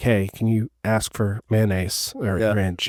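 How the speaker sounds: quiet, hushed, half-whispered stage whisper. Retelling how his wife asks him at a restaurant: imitating his wife half-whispering. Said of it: "whispers to me at a restaurant".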